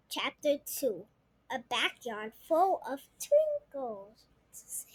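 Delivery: whispered title. Acted. Reader hushing the chapter title to the children. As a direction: breathe the title out.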